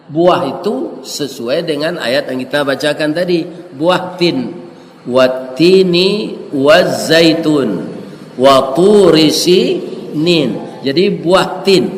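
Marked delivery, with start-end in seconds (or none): 5.0-10.8 slow, chanted recitation of the verse; Quran recitation. Acted. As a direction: intone it slowly like recitation. (lantunan ayat Al-Qur'an yang pelan)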